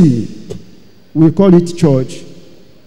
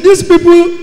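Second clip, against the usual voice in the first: voice of God; 8 semitones higher, 5 dB louder than usual. Retold or imitated. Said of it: "I said".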